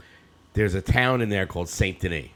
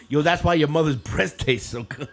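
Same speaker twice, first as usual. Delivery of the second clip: put-on cheeky kid comeback; 7 semitones higher than usual. Retelling the TikTok, voicing the kid's cheeky comeback. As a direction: fire back like a bratty kid. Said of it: "he's just like".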